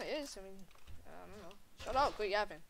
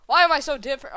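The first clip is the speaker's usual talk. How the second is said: loud, higher wrong voice; wrong character voice; 5 semitones higher, 16 dB louder than usual. Acted. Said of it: "third time I've used the wrong voice".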